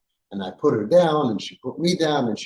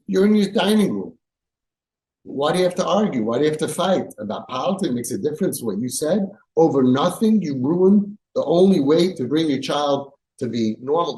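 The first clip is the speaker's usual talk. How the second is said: heated mock rebuke; 2 semitones higher than usual. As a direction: scold him like a rabbi who can't believe it. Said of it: "I said".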